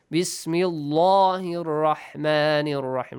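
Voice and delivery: Bismillahir with a heavy, dark "Llaah"; mispronounced Bismillah. Shown as a demonstration. Teacher showing what you don't say, mistaken heavy L. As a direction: say "Bismillahir Rahmanir Rahim" slowly with a wrongly thick L. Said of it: "You don't say".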